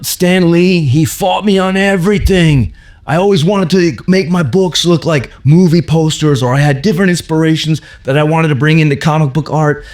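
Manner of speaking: high, worked-up storytelling voice; Steranko impression. Comic artist recalling fights with his editor, high indignant voice. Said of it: "I'm kinda putting a few words in his mouth".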